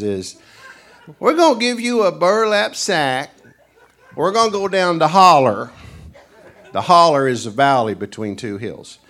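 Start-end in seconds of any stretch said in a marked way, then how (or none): 1.2-5.7 scheming country host. Retold or imitated. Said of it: "what snipe hunting is".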